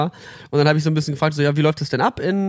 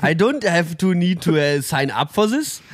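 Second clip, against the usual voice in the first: put-on German accent in English. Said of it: "auf dem Akzent seine komplette Karriere".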